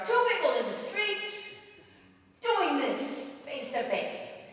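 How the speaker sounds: high, loud burst mimicking a street row; loud street shouting. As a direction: explode into a mock face-to-face shouting match. Acts out loud Italian street argument.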